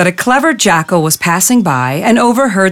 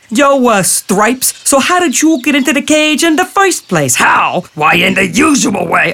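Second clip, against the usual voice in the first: high squeaky wise-guy jackal; confused jackal; 4 semitones higher than usual. Acted. Jackal pretending to be baffled, high and hammed up. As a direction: ham up the befuddlement.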